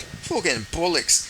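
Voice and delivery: "Fucking bollocks" slow, Irish, near own pitch; mild Irish take on "Fucking bollocks"; lightly Irish "bollocks", slow; Conor McGregor accent. Pretend. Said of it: "I love trying to do a Conor McGregor accent".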